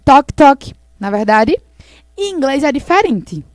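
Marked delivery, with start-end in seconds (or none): 0.0-0.7 Toque, toque, louder like knuckles on a door; knocking sound. Shown as a demonstration. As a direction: knock it out loud. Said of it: "como é a batida na porta?". (batida forte na porta)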